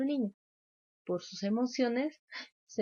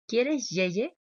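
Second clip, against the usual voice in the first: repitiendo calmada; 3 semitones higher, 5 dB louder than usual. Shown as a demonstration. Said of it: "le puedo repetir su palabrita".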